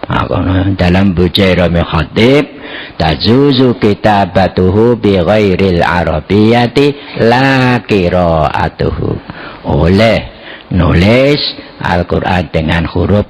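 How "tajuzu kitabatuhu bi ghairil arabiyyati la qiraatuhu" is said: measured reading with a long drawn "la"; Arabic text recitation. Acted. Debater cites a book as evidence, measured Arabic recitation. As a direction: recite the proof text, stretching the last phrase.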